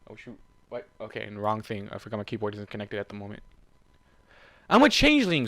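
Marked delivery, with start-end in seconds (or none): 4.7-5.5 high, loud angry hiss. Acted. Swarm snapping at Warden, loud hiss. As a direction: spit the words out at him. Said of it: "Swarm hissed".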